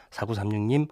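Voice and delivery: stuffy blocked nose voice; nasal voice. Real, not acted. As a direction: talk through a blocked nose. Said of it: "지금 좀 코맹맹이 소리 들리죠?".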